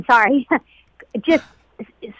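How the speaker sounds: laughing through tears; tearful half-laugh; getting emotional. Real, not acted. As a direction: voice catching as emotion rises, then laughing it off. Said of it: "I'll get emotional now".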